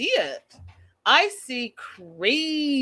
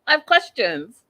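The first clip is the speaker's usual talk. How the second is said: exasperated louder restatement; louder emphatic repeat; 3 semitones higher, 5 dB louder than usual. Real, not acted. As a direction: punch it out louder. Repeats line louder second time.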